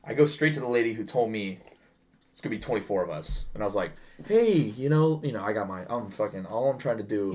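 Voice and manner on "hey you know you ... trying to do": bright, polite service-desk voice; sweet professional tone to a difficult guest; customer service voice. Retold or imitated. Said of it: "You got your customer service voice on".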